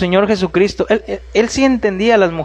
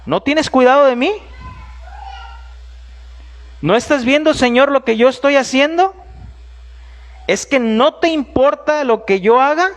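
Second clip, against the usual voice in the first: 1 complaining Marta; 4 semitones higher than usual. Acted. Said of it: "esta queja de Marta".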